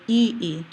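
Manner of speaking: "E E" as long ee, a catch, then ee; glottal stop. Shown as a demonstration. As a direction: cut "E E" in two with a throat stop. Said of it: "that's actually a glottal stop".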